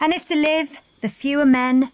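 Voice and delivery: lightly declaimed battle speech; Shakespeare recital. Pretend. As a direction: recite it like a stage king rallying troops.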